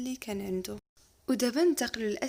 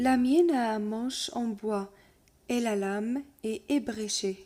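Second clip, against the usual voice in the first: lecture de conte; 3 dB louder, much slower than usual. Acted. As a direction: lecture lente et posée d'un conte. Reading the tale aloud. (maître qui lit un conte lentement à sa classe)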